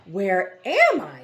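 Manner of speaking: slow, loud, bewildered question. A narrator's reading. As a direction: ask it lost and frightened. Dwayne lost, frightened.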